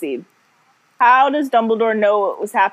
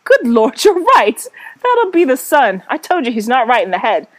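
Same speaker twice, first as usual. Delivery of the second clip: a hint of a haughty Valley Girl accent, lightly voiced; wrong-accent posh lady; faster than usual. Co-host reads snobbish Cecilia to Tom, mild Valley Girl accent. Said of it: "This is the absolute wrong accent".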